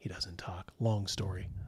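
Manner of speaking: very quiet, hushed whisper, barely there. Voicing a character who whispers to the players about a silent man: whispering. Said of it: "he just kinda whispers and says".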